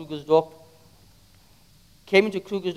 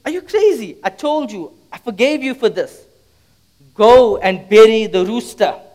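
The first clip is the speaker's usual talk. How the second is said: exasperated father; 4 semitones higher, 5 dB louder than usual. Acted. Exasperated father scolds son.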